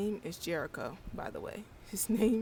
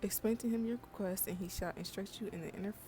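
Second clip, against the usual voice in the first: professor voice. Acted. Reads professor NPC lines.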